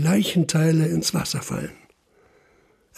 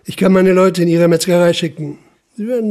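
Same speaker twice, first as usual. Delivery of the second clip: firm louder threat; 5 dB louder than usual. Acted. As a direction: raise the voice, hard and steady. Inspector threatens search. (lauter, harter Nachdruck)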